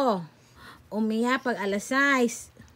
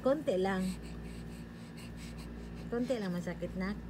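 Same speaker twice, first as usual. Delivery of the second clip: hushed soothing; 2 semitones lower, 8 dB quieter, faster than usual. Real, not acted. Parent preparing baby for vaccine shot, hushed soothing talk.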